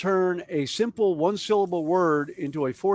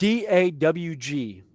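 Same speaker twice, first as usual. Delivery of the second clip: D A W G spelled letter by letter, slow; slow letter-by-letter spelling; spelled out slowly; slower than usual. Shown as a demonstration. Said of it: "asked me to spell it".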